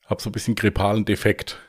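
throat a bit closed up; hoarse cold voice. Real, not acted. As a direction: speak through a sore throat. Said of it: "der Hals ist so ein bisschen zu".

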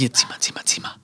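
breathy whispered urging to pull; hushed, coaxing whisper, almost no voice. Retold or imitated. Whispering to Sophia to pull on the rope. Retold own request to Sophia.

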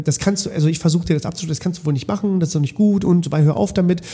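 lightly voiced quick reprimand; scolding pedagogue. Pedagogue scolds the child who hit Max, mildly stern. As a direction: rattle off a mild telling-off. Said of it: "Oder ich sag".

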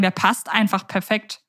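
ordinary talk

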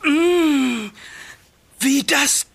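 savouring. Acted. Smelling the jar.

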